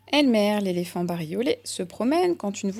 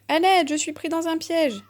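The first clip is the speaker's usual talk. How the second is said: high, put-on voice calling for help; disguised voice calling; 8 semitones higher than usual. A narrator's reading. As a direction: pretend to be someone else trapped, a bit higher. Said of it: "La voix poursuit".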